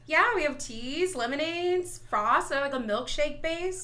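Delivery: slow, soft list of menu items; lightly put-on barista running through options; drive-thru Dutch voice. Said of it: "her Dutch voice".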